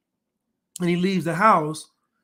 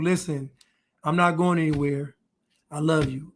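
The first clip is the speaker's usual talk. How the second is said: slightly lower, softening voice; gently reassure, as if quoting a devoted partner; reassuring; 3 semitones lower than usual. Retold or imitated. Man sitting his woman down to reassure her, reassuring. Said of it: "women need reassurance".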